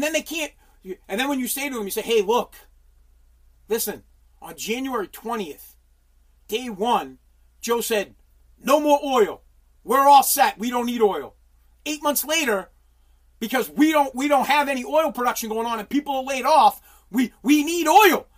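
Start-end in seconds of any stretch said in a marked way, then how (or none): 2.0-16.8 building rant. Retold or imitated. Mocking Biden voters' argument. 17.1-18.3 slow and firm; emphatic. Retold or imitated. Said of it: "first take, slower".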